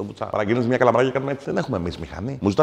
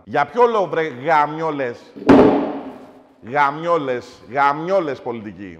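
ranting; 4 semitones higher, 4 dB louder, slower than usual. Acted. Ranting at politicians.

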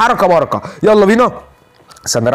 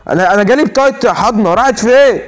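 indignant outcry; 7 semitones higher than usual. Real, not acted. Outcry at game cheating him.

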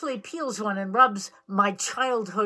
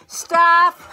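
laughing; 8 semitones higher, 11 dB louder than usual. Real, not acted. Laughing at partner's finger.

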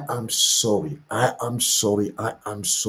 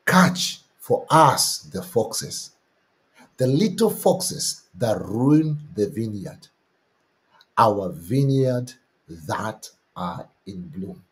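scripture reading; slower than usual. Acted. Pastor reads the Song of Songs verse, slow and solemn. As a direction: proclaim each word of the verse.

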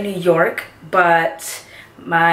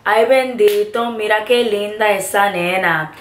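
Puerto Rican accent; 2 semitones higher than usual. Shown as a demonstration. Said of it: "Ay bendito is something that we use to say".

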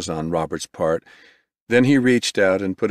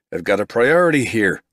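calling out; 3 semitones higher, 3 dB louder than usual. Acted. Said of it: "Roberts cried".

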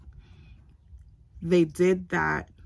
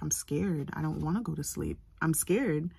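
scared and tearful; 3 dB quieter than usual. Retold or imitated. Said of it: "And I just cried".

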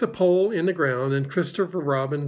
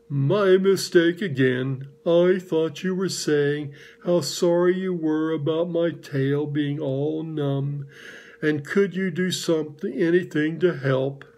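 gloomy Eeyore. Acted. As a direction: drag each word like a sad old donkey. Held Eeyore voice.

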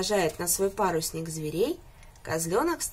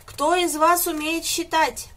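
higher, louder, slow shouted question; 8 semitones higher, 5 dB louder than usual. A narrator's reading. Rooster shouts to the passengers, slow and loud. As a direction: call it out over the panic. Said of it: "закричал громко-прегромко".

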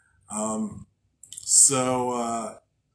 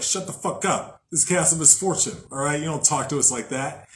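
tough gangster; 3 semitones higher than usual. Pretend. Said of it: "Chaos and misfortune be like".

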